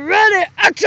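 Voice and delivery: calling out. Real, not acted. Calling start of take.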